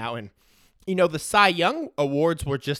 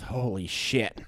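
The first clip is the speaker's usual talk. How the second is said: ordinary talk, nothing marked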